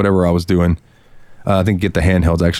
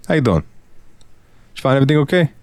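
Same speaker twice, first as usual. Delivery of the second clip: fake Brooklyn accent; 6 semitones higher than usual. Shown as a demonstration. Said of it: "your little fake Brooklyn accent".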